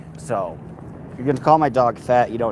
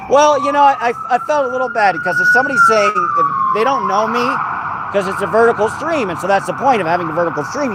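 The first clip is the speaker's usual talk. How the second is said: much higher, faster sing-song dog talk; 11 semitones higher, 4 dB louder than usual. Real, not acted. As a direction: talk up high and quick like to a pet. High voice to the dog.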